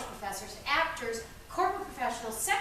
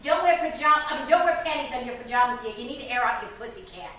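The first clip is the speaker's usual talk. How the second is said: mother's advice; 6 dB louder than usual. Acted. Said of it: "One woman said her mother used to tell her".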